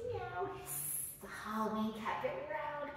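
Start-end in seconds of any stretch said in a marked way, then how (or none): 0.1-0.5 a short meow, much higher; high cat meow. Shown as a demonstration. Teacher meowing for the kids in cat pose. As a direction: squeak out a kitty meow. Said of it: "Cat pose".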